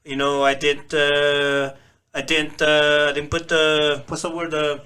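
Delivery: thick Filipino accent demo; hesitant English in a strong Filipino accent. Shown as a demonstration. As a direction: put on a hard Filipino accent, groping for words. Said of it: "sounded kinda like, uh, like this".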